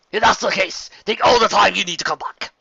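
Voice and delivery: lightly voiced joking bartender; a teasing barkeep's parting quip. A narrator's reading. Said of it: "the bald bartender joked".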